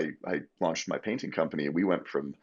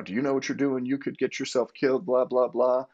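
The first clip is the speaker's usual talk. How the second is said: higher, lecturing cop voice; mock scolding; 6 semitones higher than usual. Cop lecturing the drunk kid in the back, mild mock scolding. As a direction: retell the cop's telling-off, only lightly played. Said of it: "screaming and yelling at you back there".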